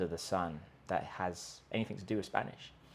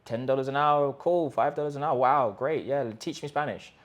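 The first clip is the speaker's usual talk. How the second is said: careless buyer; 3 semitones higher, 5 dB louder than usual. Retold or imitated. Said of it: "just find any guy or girl".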